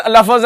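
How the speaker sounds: लफ्ज in two syllables, la-faz; imitated mispronunciation. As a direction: put an extra a before z in लफ्ज. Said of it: "हजरत तो पढ़ते ही उसे".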